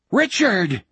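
calling out high; bellowing. Acted. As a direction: bellow his name across the beach. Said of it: "Jack bellowed again".

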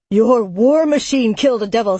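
shouted. Acted. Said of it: "Samson shouted".

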